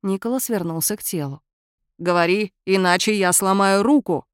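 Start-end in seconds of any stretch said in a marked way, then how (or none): 2.0-4.3 growled threat. Acted. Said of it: "прорычал он".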